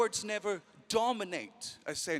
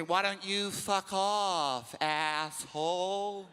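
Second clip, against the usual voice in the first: American; 3 dB quieter, much slower than usual. Retold or imitated. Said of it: "That's why they say".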